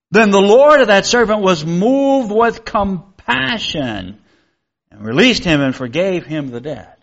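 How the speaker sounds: measured reading of scripture to the congregation. Acted. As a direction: read the Bible passage aloud with solemn care. Reads the parable from scripture.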